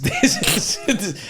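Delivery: slow, high robot voice; drawn-out robot voice. Pretend. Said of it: "with a robot voice".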